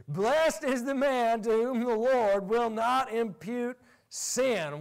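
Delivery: preacher re-reads the verse, real excitement; excited reading. Real, not acted. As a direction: read it again with real excitement. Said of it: "I got excited".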